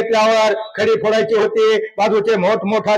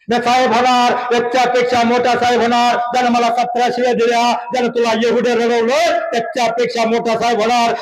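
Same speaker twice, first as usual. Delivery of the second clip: determined vow; 4 semitones higher than usual. Retold or imitated. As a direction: swear it aloud with resolve. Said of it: "एकच वाक्य लिहिलं".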